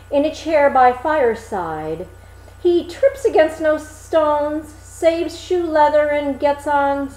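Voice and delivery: a simple lad marvelling at the rider; a hint of an eager young Hans; Hans, cheerful simple fellow. Hans voiced by narrator.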